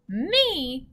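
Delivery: high, loud, indignant "me"; giant's shout. A narrator's reading. Giant asked whether he eats humans, shouting. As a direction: shout it out in storybook disbelief. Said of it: "shouted the giant".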